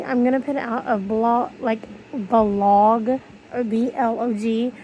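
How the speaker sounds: lisping through missing front teeth; gappy mouth, no front teeth. Real, not acted. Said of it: "I can't say with no teeth in".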